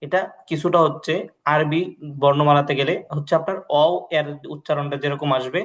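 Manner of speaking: ordinary delivery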